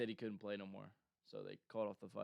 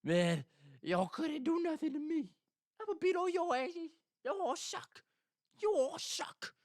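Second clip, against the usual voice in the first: much higher, louder and raspy, mocking trash talk; raspy fighter impression; 5 dB louder than usual. Fighter trash-talking at the press conference, in a high raspy mock voice. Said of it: "he has a weird raspy voice".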